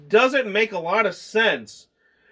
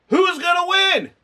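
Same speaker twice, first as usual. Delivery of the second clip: mock dramatic; 10 semitones higher, 3 dB louder than usual. Mocking the movie's setup.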